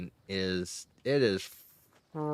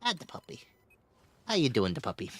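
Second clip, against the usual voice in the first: doggy greeting; 3 semitones higher, much faster than usual. Real, not acted. Greeting the dog.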